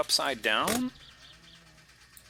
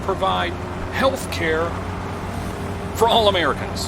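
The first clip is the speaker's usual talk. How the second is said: Bernie Sanders impression; 8 semitones higher, 5 dB louder than usual. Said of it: "Bernie Sanders cadence impersonation".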